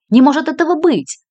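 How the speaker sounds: shouting. A narrator's reading. Lola hearing her friend was killed, shouting. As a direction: refuse to believe it. Disbelieving outburst after shout.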